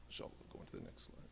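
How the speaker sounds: a quick unvoiced whisper off the mic; whispered aside. Real, not acted. Preacher whispering to the tech to change slides. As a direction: hurry a hushed request to the slide operator, fast.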